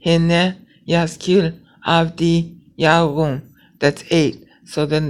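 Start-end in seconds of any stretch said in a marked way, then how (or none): 0.0-3.4 slow counted recitation. Shown as a demonstration. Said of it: "so you count those syllables".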